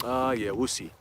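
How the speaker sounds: low, skeptical brush-off; dismissive. Retold or imitated. Mom answering her son's prediction, dismissive. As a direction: imitate an unconvinced mom, voice dropped. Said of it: "She doesn't really take it seriously".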